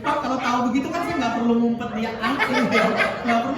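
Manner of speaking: laughing rueful complaint. Acted. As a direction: chuckle through the soldier's regret. Soldier's rueful reply to police.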